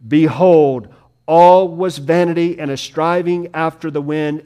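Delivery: punched, loud BEHOLD with short commanding phrases; emphatic. Acted. Solomon calls listeners to receive his warning, emphatic. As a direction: demand their attention, hitting each "Behold" hard. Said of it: "emphatically says".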